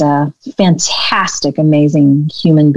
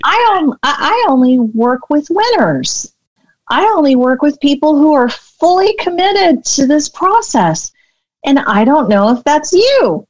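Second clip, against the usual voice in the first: much higher, squeaky, over-excited version; how I sounded in my head; 9 semitones higher than usual. Retold or imitated. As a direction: pitch it way up like a nervous bluff. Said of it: "in my head, this is how I sounded".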